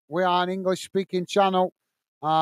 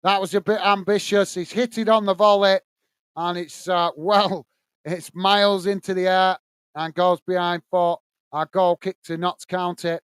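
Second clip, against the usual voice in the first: steady live match commentary; play-by-play; 2 semitones lower than usual. Acted. Commentator calling the match for stream viewers, play-by-play. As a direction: call the action as it unfolds.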